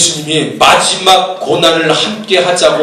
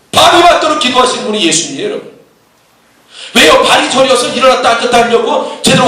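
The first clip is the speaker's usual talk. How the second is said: raised, emphatic rhetorical questioning; impassioned preaching; 8 semitones higher than usual. Real, not acted. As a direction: preach in high, punchy bursts.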